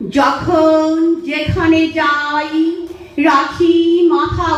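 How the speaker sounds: slow, lilting verse with drawn-out line endings; poem recitation. Real, not acted. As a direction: recite in a measured singsong, pausing after each phrase.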